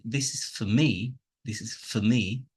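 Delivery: "for" reduced to fuh before a strong "me"; stress on ME. Shown as a demonstration. Teacher showing weak forms, emphasis on ME. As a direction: lean on "me", weaken "for". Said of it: "say me with emphasis, I'm dropping the".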